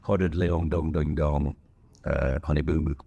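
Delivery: mock attempt at a Southern accent; bad Southern accent. Strangers greeting a Southerner, badly faked Southern accent. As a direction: imitate someone badly faking a Southern accent. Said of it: "People think that they can do their accent".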